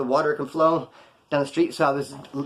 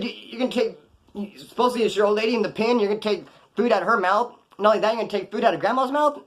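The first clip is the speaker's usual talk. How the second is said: higher-pitched mock disbelief; retold indignant reproach; incredulous scolding; 5 semitones higher than usual. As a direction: press him with rising, disbelieving questions. Acted incredulous scolding of friend.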